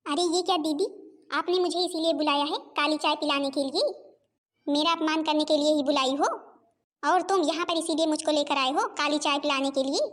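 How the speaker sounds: indignant questions with sharply rising endings; offended anger. Acted. Insulted guest confronting her hosts over black tea, angrily. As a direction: demand an answer, affronted. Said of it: "अरे इतना गुस्सा क्यों हो रही हो?".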